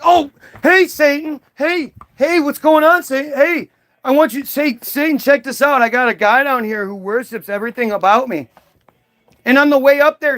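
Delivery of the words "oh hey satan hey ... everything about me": eager God. Retold or imitated. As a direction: bounce up eager and giddy. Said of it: "God saw him and came running up like".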